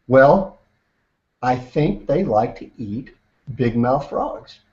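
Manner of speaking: slow, deliberate alligator reply; slow, pointed answer. Acted. Mama alligator answering the frog, slow and deliberate. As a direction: leave a pause, then take your time.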